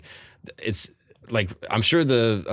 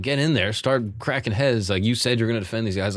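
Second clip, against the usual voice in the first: urging on; 4 semitones higher than usual. Retold or imitated. Urging Chamberlain to fight.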